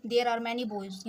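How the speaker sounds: put-on there are many boys read very slowly, word by word; slow dictation. Shown as a demonstration. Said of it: "teacher rereads sentence slowly". (there are many boys को बहुत धीरे, शब्द-शब्द पढ़ना)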